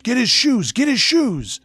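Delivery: loud, high, repeated command; chasing yell. Retold or imitated. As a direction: holler it to the pack. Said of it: "I heard a voice yell out".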